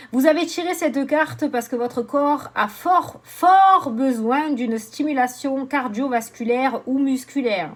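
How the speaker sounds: slow, emphatic reading; card read aloud. Acted. Oracle reader explaining the drawn card, slow emphatic reading. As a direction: read it out slowly, leaning on the repeated word.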